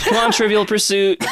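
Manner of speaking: high coaxing dog call; calling a lost pet. Pretend. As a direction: coax the dog to come.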